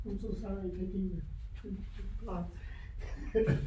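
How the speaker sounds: soft laughing apology. Real, not acted. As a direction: giggle through the apology. Laughing apology mid-sentence.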